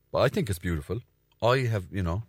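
usual speaking voice

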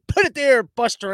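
a cheery put-it-there call; imitating Biden. Biden's handshake call to no one, mock-hearty. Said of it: "he came out with this".

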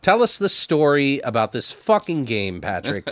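loose, tipsy delivery. Real, not acted. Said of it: "I'm too drunk for this shit".

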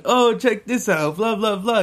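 high-pitched imitation of a guy showing off; mock show-off. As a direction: put on a goofy high voice, drawn out. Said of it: "thinking he was fucking".

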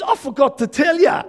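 high, loud imitation of a friend; excited blurting. Preacher acting a friend at a conference, excitedly.

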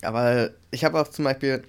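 talking around a candy; sucking a throat lozenge. Real, not acted. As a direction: speak with a sweet in the mouth. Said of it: "ich hab so einen Bonbon im Mund".

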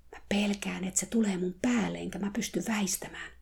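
scared, hushed whisper; frightened whisper. Acted. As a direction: whisper it close, afraid. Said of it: "terapeutti kuiskasi mulle". (pelokas kuiskaus)

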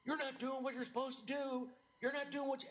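high-pitched retold yell of a stranger; mild mock shout at a passerby. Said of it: "this guy starts shouting".

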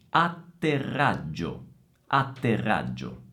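ATTERRAGGIO with TT, RR and GG all lengthened; double consonants. Shown as a demonstration. Teacher repeats the doubles for students, careful ATTERRAGGIO. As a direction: give each double its time in ATTERRAGGIO. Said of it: "c'è un festival di doppie".

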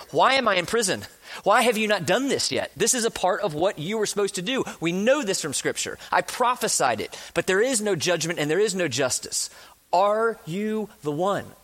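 demanding, accusing. Retold or imitated. John in prison confronting Jesus, demanding and accusing. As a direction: demand answers like a wronged prisoner. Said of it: "I don't think he would have said it with that tone".

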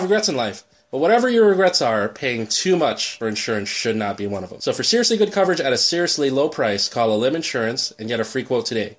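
upbeat sponsor read. Acted. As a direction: sell it like a radio ad. Reads an insurance ad.

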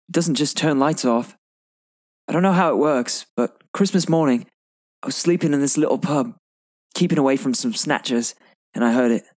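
put-on light British accent as Ron; quoting Ron in a lightly done British accent. Reciting Ron's film line to a friend in a light British accent. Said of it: "Nice job on the accent".

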